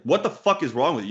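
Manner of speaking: replaying how pissed he got at the student; retold angry outburst. Coach berating a student who plays badly, exasperated. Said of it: "I would get so pissed".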